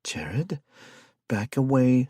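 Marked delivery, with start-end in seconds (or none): 0.0-0.6 urgent whisper of his name; hushed whispered call. A narrator's reading. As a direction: whisper a warning. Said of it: "Anna whispered".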